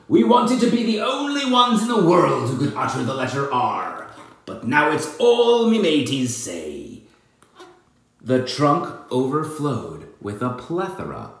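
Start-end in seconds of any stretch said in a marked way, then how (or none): 0.1-7.0 lightly voiced pirate captain.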